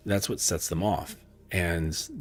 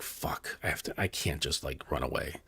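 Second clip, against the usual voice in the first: hushed, low acted self-talk; reluctant resolve; 5 semitones lower, 10 dB quieter than usual. Cowardly horse realizing he must go back for his knight, muttered reluctantly. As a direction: drop soft and low, as if muttering to yourself.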